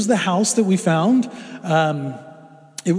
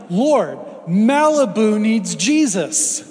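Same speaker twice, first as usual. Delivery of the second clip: mock pleading prayer; 3 semitones higher, much slower than usual. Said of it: "I was thinking, like".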